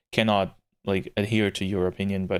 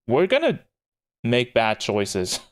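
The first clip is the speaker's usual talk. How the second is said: gleeful, then slow and drawn out; mischievous; slower than usual. Real, not acted. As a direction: savour the plan to make bad choices. Mischievous plan for bad ending.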